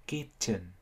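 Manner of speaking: KITCHEN stressed on KIT, short weak "chən"; short second vowel. Shown as a demonstration. Teacher showing an understandable option, KITCHEN with weak schwa ending. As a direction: punch KIT and reduce the end of KITCHEN. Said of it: "bởi vì nó là âm ngắn".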